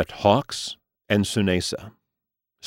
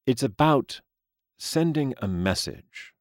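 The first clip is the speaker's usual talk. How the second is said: aging gentleman voice; 7 semitones higher than usual. Acted. Mister Lee speaks.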